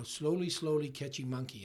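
light Australian accent imitation; a hint of an Australian accent, quoting an old boss; Peter Schumann's Aussie accent. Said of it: "in his Aussie accent".

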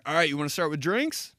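lightly voiced waiter patter; server voice. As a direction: ask the table like a waiter. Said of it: "It's my server voice".

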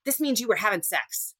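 mocking husband voice. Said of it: "And he's like".

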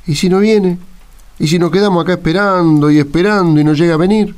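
worried what-if. Acted. Héctor frets to the others about waiting, anxious. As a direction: fret that the truck won't come.

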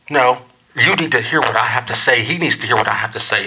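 lightly voiced insistent mom; imitated insistent mom. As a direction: insist like a mom who won't be refused. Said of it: "This is what it sounds like".

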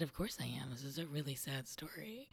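soft whisper, gently matter-of-fact; whispered reply. Retold or imitated. Retelling the minister's tender reply, whispered. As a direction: say it hushed and kindly.

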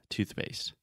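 soft "Toothpaste" with tongue out, quick p; quietly, tongue out on the th; tongue sticking out. Shown as a demonstration. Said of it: "my tongue is out of my mouth".

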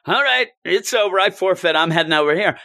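quitting the contest with a shrug; breezy Gwenpool. Retold or imitated. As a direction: toss it off lightly. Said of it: "She's just like".

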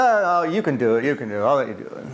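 relent expansively with a hint of a Greek accent; lightly mimicked older Greek man's accent; thick Greek accent. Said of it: "he had a thick accent".

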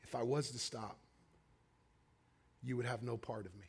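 very soft, low and solemn; quiet, grave, spaced-out delivery; hushed whisper-like voice. Retold or imitated. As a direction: drop right down, a gentle inner voice. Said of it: "whisper of the Holy Spirit".

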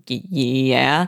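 stammered, uncertain yes; hesitant agreement. Acted. Trotty answering her question about Lillian, hesitant agreement. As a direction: stretch it out haltingly, unsure.

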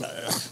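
low, soft mock-swooning "ugh"; a hushed, wordless gush; swooning noise. Preacher mimicking a lovestruck couple at the altar, swooning noise.

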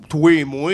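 "toi et moi" as Québécois "toué, moué"; Québécois pronunciation. Shown as a demonstration. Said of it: "a l'accent français, mais si tu dis". (« toi et moi » prononcé « toué, moué »)

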